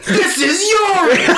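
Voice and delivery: very high, slow squeaky voice; squeaky hamster voice. Pretend. Prank reveal, squeaky voice.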